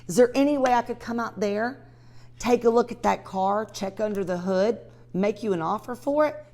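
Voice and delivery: warmly eager to see the Pontiac; eager buyer pitch. Shown as a demonstration. Showing the same call with a car, eager phone voice. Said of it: "Let's use that Pontiac".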